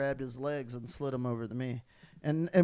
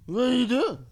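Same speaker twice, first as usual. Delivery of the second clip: high loud startled yell; startled cry; 7 semitones higher, 13 dB louder than usual. Retold or imitated. Peter waking on the floor, loud startled yell. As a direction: wake up shocked and shout. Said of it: "He's like".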